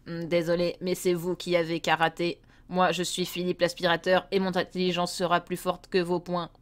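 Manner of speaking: a hint of a scheming vacuum cleaner; lightly voiced villain.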